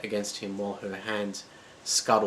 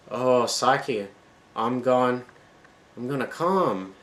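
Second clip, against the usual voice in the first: gasping; 2 semitones higher, slower than usual. Acted. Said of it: "he gasped".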